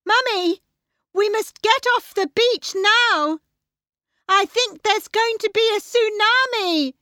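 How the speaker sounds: put-on very high, loud girl's cry of warning; urgent shout. Tilly warns her mother of a tsunami, urgent high shout. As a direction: shout a warning at the top of your range. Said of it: "Tilly shouted".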